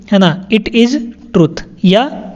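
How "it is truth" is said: "It is truth" said very slowly, word by word; slow clear repetition. Shown as a demonstration. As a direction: spell the sentence out slowly for learners. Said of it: "teacher repeats sentence slowly". (धीरे-धीरे साफ़ बोलना)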